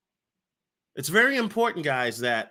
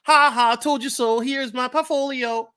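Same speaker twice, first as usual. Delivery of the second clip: higher, louder taunting gloat; gloating told you so; 7 semitones higher, 3 dB louder than usual. Retold or imitated. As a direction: rap it out like a little rhyme. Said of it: "Let me do it again".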